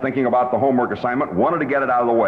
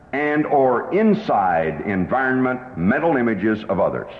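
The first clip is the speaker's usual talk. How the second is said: slow, deliberate definition; slower than usual. Shown as a demonstration. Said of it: "Not too long, not too sophisticated".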